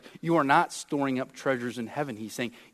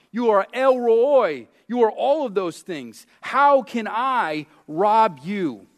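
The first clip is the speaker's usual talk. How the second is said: incredulous protest; 4 semitones higher, 5 dB louder than usual. Retold or imitated. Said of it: "You ask, and I ask".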